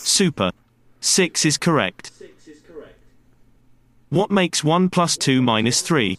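slow, clear teaching voice; kindergarten teacher voice. Shown as a demonstration. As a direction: talk slowly, like to small children. Demo lesson to podcast learners.

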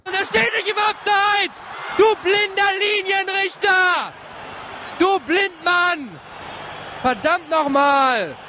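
angry shout. Acted. Angry fan radio commentary clip.

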